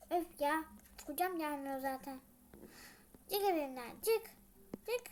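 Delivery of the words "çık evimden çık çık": angry order. Acted.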